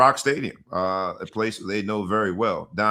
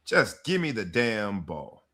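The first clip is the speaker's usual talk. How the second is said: quoted catchphrase; 4 dB quieter, slower than usual. Retold or imitated. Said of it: "pop culture standpoint".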